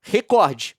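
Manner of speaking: recorde, hit the syllable cor hard; paroxytone recorde. Shown as a demonstration. Demonstrating the correct pronunciation to viewers. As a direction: stress cor in recorde: re-CÓR-de. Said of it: "com força na sílaba cor".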